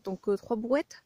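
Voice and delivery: panting between words; out of breath. Real, not acted. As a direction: still catching breath. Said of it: "je suis essoufflée".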